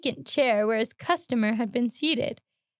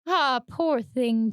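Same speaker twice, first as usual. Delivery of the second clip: slow, drawn-out sneering ah; mocking ah; much slower than usual. Barber mocking the customer's story, slow sneer. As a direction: drawl it with a hidden snigger. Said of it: "what are you laughing at now?".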